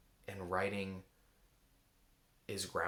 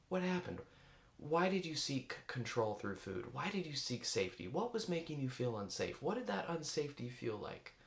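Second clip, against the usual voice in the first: gently curious questions, pitched up and open; kind curious tone; 3 semitones higher than usual. Shown as a demonstration. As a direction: ask it like a caring friend, no judgment. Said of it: "There's a tone of voice that's very important I want you to hear".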